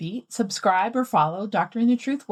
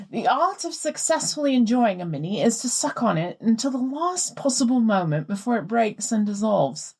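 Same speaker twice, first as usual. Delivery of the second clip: put-on reading a listener's letter in a light posh English accent; plummy English voice, lightly put on. Host reads the listener's letter to her co-host, light posh English accent. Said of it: "slaughtering your accent".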